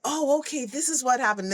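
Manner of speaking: excited realisation. Retold or imitated. Kids seeing the catapult start to work, excited. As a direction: voice a sudden mild aha. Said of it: "Then they got excited".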